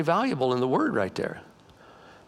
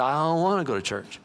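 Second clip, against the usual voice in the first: reluctant husband. Acted. Husband answers wife about church, reluctant refusal. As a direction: lightly play a man refusing to get up. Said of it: "He said".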